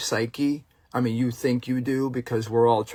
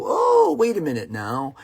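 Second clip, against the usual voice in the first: mock realization; 4 semitones higher, 3 dB louder than usual. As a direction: imitate a sudden change of mind, opening high. Mimics industry switching the goalpost.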